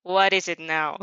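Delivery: a touch of irritated snap; mild snap. Acted. Shadow snaps at her host, mild irritation. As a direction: snap back, lightly annoyed.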